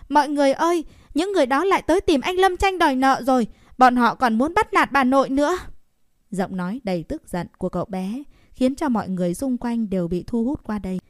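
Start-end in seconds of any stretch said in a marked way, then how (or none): 0.1-5.6 put-on high, loud boy calling out to the neighbours; loud scolding. A narrator's reading. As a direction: shout it to rally the whole street. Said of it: "lớn tiếng mắng".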